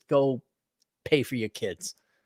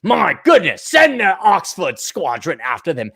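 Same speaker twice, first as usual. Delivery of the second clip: mock British squadron leader; lightly hammed Oxford accent; snooty British. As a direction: play a snooty British commander. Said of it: "they'd be all snooty and British".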